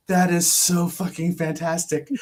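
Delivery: slow, emphatic relish with laughter; retold delight. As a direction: imitate someone thrilled, drawing out each word. Retold delighted reaction, expected anger.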